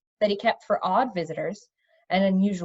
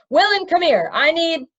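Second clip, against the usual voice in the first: calling out; 7 semitones higher, 7 dB louder than usual. A narrator's reading. Calling out in the palace.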